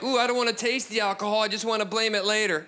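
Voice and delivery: mock party-girl whine; mock girly attitude. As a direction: play up the girls' attitude. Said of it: "taking that attitude of like".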